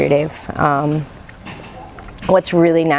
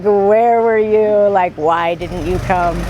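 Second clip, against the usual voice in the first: slow, lightly stern guru asking where I was; mild stern scolding; slower than usual. Retold or imitated. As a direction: retell the guru's scolding, slow and only mildly stern. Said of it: "really quite upset and really stern".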